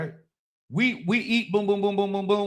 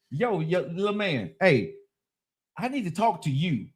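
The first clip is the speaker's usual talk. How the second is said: put-on friendly to the kid; 5 semitones lower, 4 dB quieter than usual. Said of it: "I'm being a gentleman".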